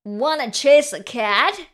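high-pitched storybook dog; dog character. A narrator's reading. Dog invites spider to chase, high character voice. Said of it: "barked the dog".

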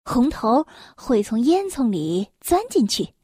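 measured bedtime-story reading; children's story narration. Acted. Mother reads an elf tale to a little one, storytelling. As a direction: read it gently to a small listener.

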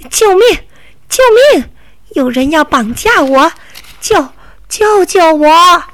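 high, loud mock cries for help; grandma shouting help from the bike, hammed-up; crying for help. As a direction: yell help as if kidnapped.

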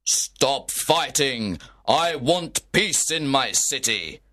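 a prince's measured, angry decree. Acted. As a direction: lay down the law to the feuding lords. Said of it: "He was very angry".

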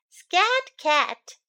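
a driver waving the cat away; bus driver shooing. Acted.

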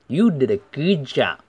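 GOOD JOB with lips pushed forward; pursed-lip sounds. Shown as a demonstration. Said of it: "都是撅嘴音哈". (GOOD JOB 撅嘴读)

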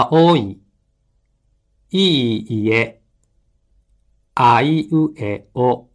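careful, evenly timed vowels; measured model reading for learners; mora-by-mora pronunciation. Shown as a demonstration. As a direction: give every vowel its full beat. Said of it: "拍に注意して発音してください".

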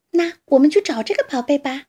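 excited shout. Acted. Fox urging badger to hunt treasure, excited call. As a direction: fox cries out, thrilled at the idea. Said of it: "狐狸兴奋地叫起来".

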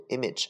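image said IM-ij; correct pronunciation. Shown as a demonstration. Teacher repeats how it should be read, image pronounced IM-ij. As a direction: say image with the short "ij" ending. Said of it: "它读image".

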